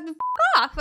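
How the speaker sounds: put-on high little kid voice; toddler voice. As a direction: play a cheeky toddler. Toddler swears from toilet.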